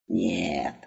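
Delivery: deep, slow, contented carpet voice; a low, pleased voice for the old carpet; satisfied flying carpet. A narrator's reading. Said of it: "удовлетворённо отозвался Ковёр".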